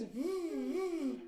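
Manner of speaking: buzzing v sounds held on the lip; vampire bat v sound. Shown as a demonstration. Mom shows the Vincent Vampire Bat v sound, buzzing each v. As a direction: buzz each v like a bat's wings. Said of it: "Flap your wings".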